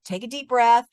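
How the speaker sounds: lightly sing-song comforting; parenting voice. Retold or imitated. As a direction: reassure like a parent calming a child. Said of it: "I was using my, like, parenting skills".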